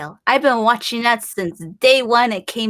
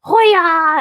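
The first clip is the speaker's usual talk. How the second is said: battle cry; 5 semitones higher, 5 dB louder than usual. Retold or imitated. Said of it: "you're just like".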